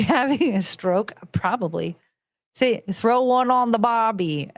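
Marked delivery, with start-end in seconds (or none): 2.9-4.5 unconvincing Aussie twang; attempted Australian accent. Shown as a demonstration. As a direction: try and fail at an Australian accent. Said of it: "See, I can't do it".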